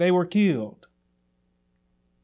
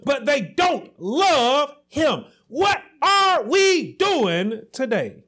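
higher, slow, shouted rebuke; preaching rebuke; 4 semitones higher, slower than usual. Real, not acted. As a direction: hammer home the accusation. Preacher rebukes false love.

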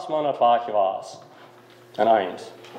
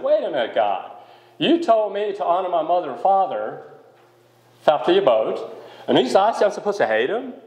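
higher, incredulous objection to God; higher voiced disbelief at God's command; mock protest; 5 semitones higher than usual. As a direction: act out the baffled disciple arguing back.

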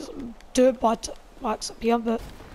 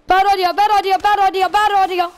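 loud panicked bad idea; panicked shout; 7 semitones higher, 10 dB louder than usual. Real, not acted. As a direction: yell it in alarm.

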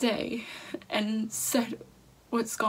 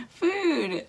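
put-on a child blurting out a guess, high and loud; high, loud eager-boy voice with a laugh inside; excited little boy; 5 semitones higher, 3 dB louder, much slower than usual. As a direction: pipe it up like an eager kid guessing. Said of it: "Blake's like".

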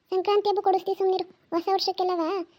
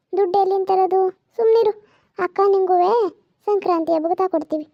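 louder, firm telling-off; loud scolding; 6 dB louder than usual. Acted. Grandmother telling off her grandson over money, loud and firm. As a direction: scold the kid and shut him up.

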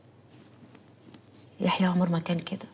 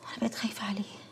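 barely voiced, much softer, scared; fearful whisper; 12 dB quieter than usual. Wife confessing her fear for her husband to her aunt, whispered. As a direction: breathe the words out in fear.

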